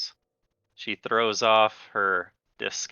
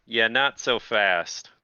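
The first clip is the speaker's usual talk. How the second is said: male voice; slower than usual. Acted. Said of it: "you hear a male voice saying".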